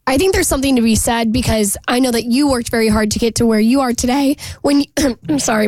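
strained, tired voice fading; voice giving out. Real, not acted. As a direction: talk through a worn-out voice. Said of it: "my voice is giving out today".

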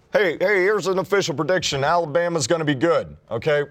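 high, mock-excited proclamation; mock announcement. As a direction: announce the obvious as if it were big news. Mocks an obvious prediction.

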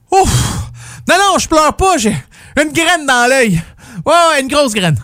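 mock tearful denial. Pretending not to cry at Rambo.

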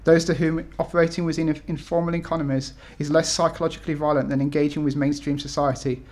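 steady, measured reading of a personal essay. Acted. Author reading title essay to audience, measured read-aloud. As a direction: read it out firmly, phrase by phrase.

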